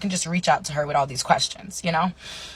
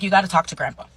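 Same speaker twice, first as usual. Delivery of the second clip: louder, mildly fed-up dad; a little frustrated; 3 semitones higher, 6 dB louder, much faster than usual. Retold or imitated. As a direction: pass it off with mild frustration. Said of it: "He's getting a little frustrated".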